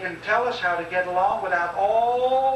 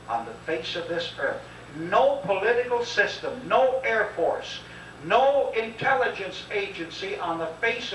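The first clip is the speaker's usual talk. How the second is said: rousing preaching. Real, not acted. Speaker preaching to audience.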